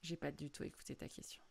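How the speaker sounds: quiet, sorry and gentle; soft apology. Retold or imitated. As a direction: say it softly, owning the mistake. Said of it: "je me tourne vers lui et je dis".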